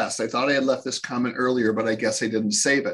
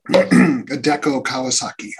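Ted Baxter impression; 6 dB louder, slower than usual. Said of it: "It's like Ted Baxter".

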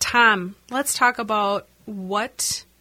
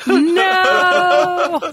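loud refusal; 10 semitones higher, 8 dB louder than usual. Retold or imitated. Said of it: "Lloyd's like".

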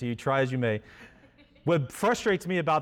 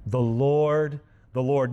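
proclaimed; 4 dB louder, slower than usual. Acted. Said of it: "Notice it's all in, it's in all caps".

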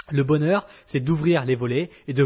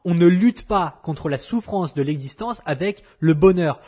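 louder, pressing every word home; emphatic repeat; 3 semitones higher, 5 dB louder than usual. Shown as a demonstration. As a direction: hammer the point home for emphasis. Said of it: "parce que c'est hyper important".

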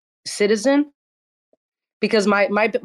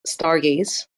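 nervous. Real, not acted. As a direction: stumble through it nervously. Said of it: "I don't know why I'm really nervous right now".

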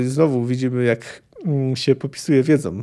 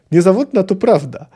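dwarf's line called out, louder and higher; heated call; 5 semitones higher, 5 dB louder than usual. Acted. Dwarf insisting on the tale to Milwa, a heated call. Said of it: "zawołał zapalczywie krasnolud".

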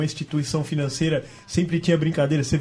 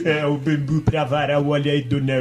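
rhyming market barker; 4 semitones lower than usual. Retold or imitated. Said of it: "aquele resquício de voz".

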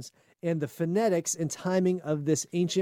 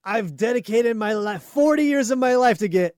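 proud scientist; 5 semitones higher, 6 dB louder than usual. Pretend. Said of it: "This is Howard's big moment".

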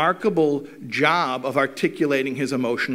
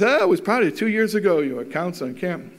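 offhand father; faster than usual. Retold or imitated. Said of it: "So he says".

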